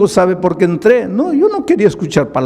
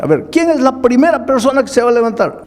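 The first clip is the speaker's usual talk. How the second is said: calling out to the crowd; 9 semitones higher, faster than usual. Retold or imitated. Pastor calls crowd to stand.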